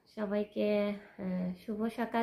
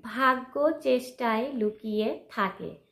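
slow, projected title of a poem; poem title announcement; 4 dB louder than usual. Acted. Announcing the next poem to viewers, slow and declamatory. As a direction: announce the verse title deliberately.

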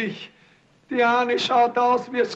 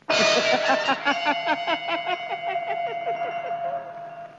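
long laugh climbing higher and higher; mocking laughter; 4 semitones higher, 3 dB quieter than usual. Someone unseen laughs at the ruined man, rising. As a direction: let the laugh rise into a cackle.

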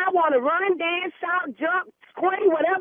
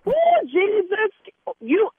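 drawn-out loud "Oh, Jesus"; slow, louder cry of exasperation; exasperated; 5 semitones higher, 3 dB louder, much slower than usual. Acted. Church lady getting worked up.

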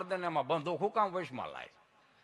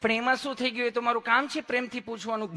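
high, sweetly soothing nurse; mock-affectionate nurse voice; lovingly asking nurse; 4 semitones higher than usual. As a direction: coax the patient, ending on a little hum. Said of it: "તમે કેટલું પ્રેમથી પૂછો છો".

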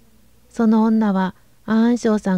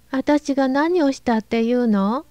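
slow, high, on the verge of tears; starting to cry; 4 semitones higher than usual. Acted. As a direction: voice about to break into tears. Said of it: "泣き出しました".

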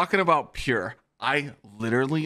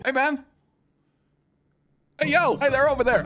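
much higher, hyped gamer voice; mock teammate pitched way up; teammate callouts; 13 semitones higher, 4 dB louder than usual. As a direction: play the squadmate yelling positions. Voicing teammates calling out in game.

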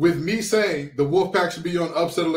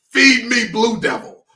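acted hungry demand; 5 semitones higher, 4 dB louder than usual. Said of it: "The young man said".

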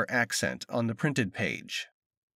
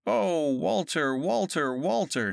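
keening; 3 semitones higher, slower than usual. A narrator's reading. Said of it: "she keened".

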